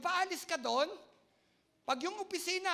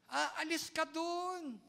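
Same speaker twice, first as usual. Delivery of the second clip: gentler repeat; much slower than usual. Shown as a demonstration. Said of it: "Hindi po ako galit sa inyo".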